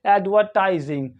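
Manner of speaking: एडवर्टाइजिंग with a silent R; British pronunciation. Shown as a demonstration. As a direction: say एडवर्टाइजिंग British-style, no R before the T. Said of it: "British English में इसे पढ़ेंगे".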